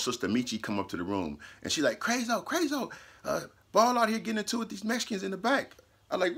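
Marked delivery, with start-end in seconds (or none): 2.0-5.8 high, hurried, breathless news; urgent sister's call. Retold or imitated. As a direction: burst in calling his name.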